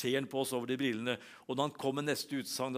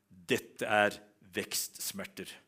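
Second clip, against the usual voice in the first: low, deliberate pronouncement of vekstsmerter; low, weighty diagnosis: Dette er vekstsmerter; doctor's diagnosis; 5 semitones lower, much slower than usual. Retold or imitated. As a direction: deliver vekstsmerter lower, like the doctor's punchline.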